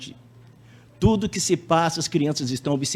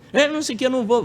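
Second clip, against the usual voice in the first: put-on bratty child; 11 semitones higher, 4 dB louder, much faster than usual. Spoiled child refusing punishment.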